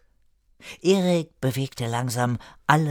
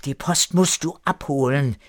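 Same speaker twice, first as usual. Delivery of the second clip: higher, louder complaint building through a list; scold, piling up the grievances; 6 semitones higher, 4 dB louder than usual. A narrator's reading. Erika complains to the postman about deliveries, scolding. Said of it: "Erika schimpfte".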